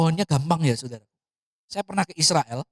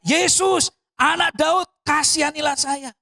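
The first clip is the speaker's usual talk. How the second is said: high-pitched imitation of a calling plea; retold crying out; 10 semitones higher, slower than usual. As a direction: call out for mercy, not at full volume. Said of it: "dia teriak". (menirukan seruan memohon belas kasihan)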